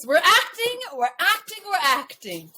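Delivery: playful put-on actor's voice, starting high and coming down; acting voice. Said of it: "Put on your acting voice".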